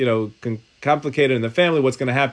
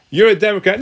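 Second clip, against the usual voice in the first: high, raised-pitch accusing jab; mock accusation; 6 semitones higher, 4 dB louder than usual. Rabbi acting out two accusations in one sitting, mock accusing.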